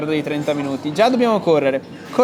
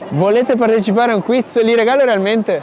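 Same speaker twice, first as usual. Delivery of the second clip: raised voice hailing passersby; calling out; 3 semitones higher, 3 dB louder than usual. Real, not acted. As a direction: call out to people walking past.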